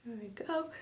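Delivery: whispering mid-mascara; breathy aside while applying mascara. Real, not acted. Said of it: "I can't talk and do my mascara at the same time".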